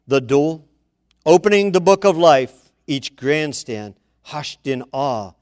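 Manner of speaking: measured dramatic poem reading; poem recitation. Acted.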